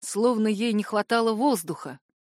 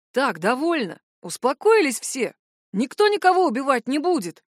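firmly; 5 semitones higher, 4 dB louder than usual. A narrator's reading. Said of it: "твёрдо произнёс Вальд".

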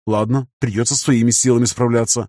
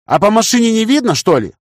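evasive; 10 semitones higher, 4 dB louder than usual. A narrator's reading. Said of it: "ответил я уклончиво".

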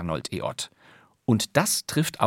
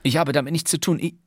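put-on old radio-crime line, the voice dying to breathless air at the end; voice giving out; 6 semitones higher, faster than usual. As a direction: let the tension choke the voice mid-sentence. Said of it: "wenn vor lauter Spannung die Stimme versagt".

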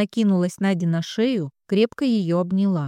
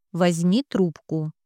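usual speaking voice

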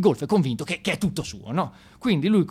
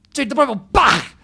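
mock climax; 12 semitones higher, 9 dB louder, slower than usual.

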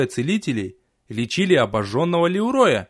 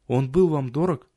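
sympathetic. Acted. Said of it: "С сочувствием спросила графиня".

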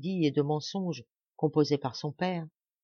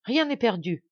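loud, higher burst of hope; exclaiming; 6 semitones higher, 5 dB louder than usual. A narrator's reading. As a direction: cry out as hope returns. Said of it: "s'écria-t-elle".

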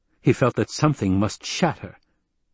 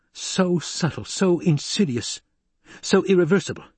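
terrifying presence; 7 semitones higher than usual. A narrator's reading. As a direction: weigh out each phrase, allowing no dispute. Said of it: "The terrifying presence of his voice brooked no dispute".

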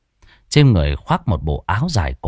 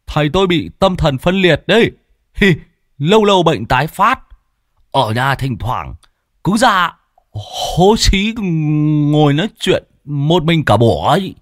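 much higher and louder teasing voice; a high, louder put-on voice of a joking youth; mocking apprentice; 6 semitones higher, 3 dB louder than usual. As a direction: poke fun at the master, cheeky and shrill with glee. Apprentice mocks his master.

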